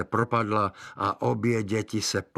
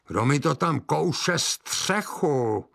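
high, slow witch's call; 8 semitones higher, 3 dB louder, much slower than usual. Acted. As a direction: draw it out like a suspicious witch. Witch calls out again.

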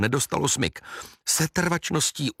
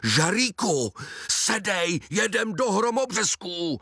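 higher, put-on commanding aunt; aunt orders the boy into the car; bossy aunt; 10 semitones higher, slower than usual. A narrator's reading.

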